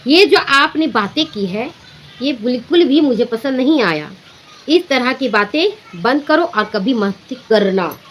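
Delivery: calm firm voice. Shown as a demonstration. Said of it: "शांत होकर मजबूत आवाज़ में".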